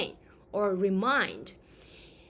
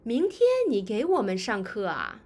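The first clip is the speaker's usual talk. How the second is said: surprised; 4 dB louder than usual. Shown as a demonstration. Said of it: "I'm surprised".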